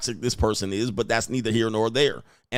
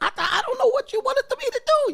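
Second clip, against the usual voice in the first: very high, lightened, high-pitched voice. Speaker demonstrating an evasive, passive-aggressive move by lightening their voice; lightened, high-pitched voice. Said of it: "you're lightening your voice".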